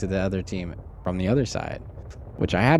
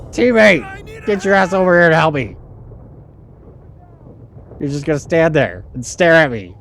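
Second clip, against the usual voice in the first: louder, higher furious shouts at teammates; angry yelling; 6 semitones higher, 6 dB louder than usual. Real, not acted. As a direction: vent your rage at the team. Raging at useless teammates.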